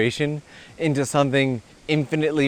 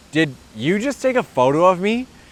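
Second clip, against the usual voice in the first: hostile, aggressive delivery, pitched up; 6 semitones higher than usual. Retelling how a stranger confronted a photographer: imitating someone speaking aggressively. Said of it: "They approached him rather aggressively, saying".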